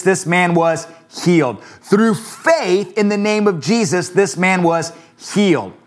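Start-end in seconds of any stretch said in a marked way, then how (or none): 1.6-5.7 slower, each word weighed; slow emphatic repeat. Shown as a demonstration. Pastor repeats the verse for the church, slow and weighty. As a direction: repeat the verse slowly so it sinks in.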